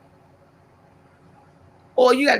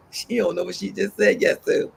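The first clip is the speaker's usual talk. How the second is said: a knowing chuckle of an aside; God amused at her eager yes; 4 dB quieter than usual. Retold or imitated. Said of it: "He was like".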